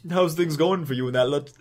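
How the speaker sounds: half-hearted attempt at a Southern accent; failed Southern accent. Gulch greets Howard, in a failed Southern accent. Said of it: "can't fucking do a Southern accent".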